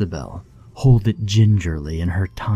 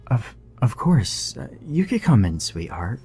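cooing; 5 semitones higher than usual. Acted. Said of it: "she cooed".

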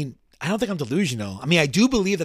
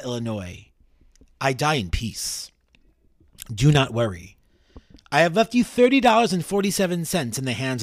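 formal letter reading. Acted. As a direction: read it out with mild solemnity, unhurried. Reads condemned man's farewell letter aloud.

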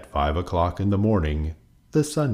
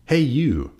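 grouchy call; 8 semitones higher than usual. A narrator's reading. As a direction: call out a rude challenge. Grouchy ladybug challenges an animal.

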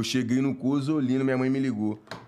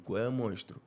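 soft, lower conspiratorial request; low, hushed ask; 6 semitones lower, 6 dB quieter than usual. Retold or imitated. Boy quietly begging friend to pose as guardian. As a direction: sweet-talk him quietly.

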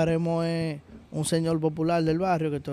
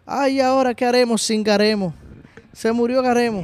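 hammed-up lament, a touch louder; mock wailing son; 5 semitones higher, 3 dB louder than usual. Son arriving from New York, mock wailing over his dead father. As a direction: wail it like a grieving son in jest. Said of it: "Y dice el papá, eh, el chamaco".

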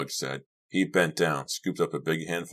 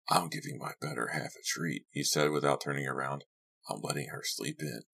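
lightly voiced host, softer and offhand; 7 dB quieter than usual. Host explaining his wife is sleeping in, lightly voiced and offhand.

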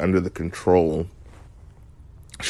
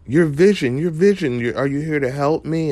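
mock panic; 9 semitones higher than usual. Agnes pretending to be scared to Vision, high mock panic. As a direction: play a frantic townsperson, much higher.

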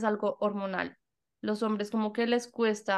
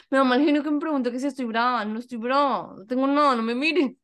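mock annoyance; 2 semitones higher, 5 dB louder than usual.

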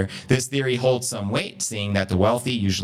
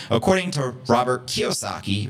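usual speaking voice

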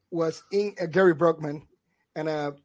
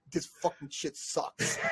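whisper; 3 semitones lower, 10 dB quieter than usual. Retold or imitated. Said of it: "she's like".

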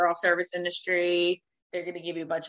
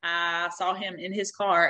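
ordinary talk

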